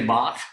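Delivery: Bach ending in a back-of-the-throat scrape; throaty CH. Shown as a demonstration. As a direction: end Bach like clearing your throat. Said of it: "sound in the back of your throat".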